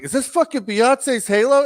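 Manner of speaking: high, loud mock disbelief; incredulous. Podcaster voicing the fighter hearing a singer's song play, incredulous. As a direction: imitate a fighter aghast at his entrance song.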